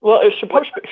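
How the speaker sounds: talking while chewing; words around a mouthful of food. Real, not acted. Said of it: "sorry, I'm chewing".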